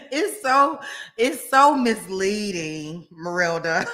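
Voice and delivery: drawn-out words through laughter; amused laughter. Real, not acted. Streamer teases Merelda about her money, laughing. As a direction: protest while cracking up.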